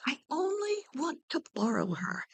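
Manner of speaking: breathless whispered plea; pleading whisper. Acted. Orpheus whispers to Hades, pleading. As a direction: whisper it, almost begging.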